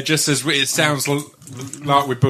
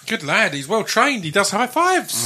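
praising the dog; 7 semitones higher than usual. Real, not acted.

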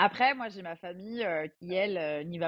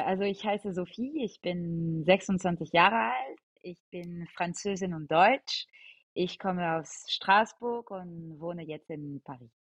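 slow, measured German sample; German self-introduction; slower than usual. Shown as a demonstration. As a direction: introduce yourself slowly in German for listeners. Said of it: "une petite phrase en allemand".

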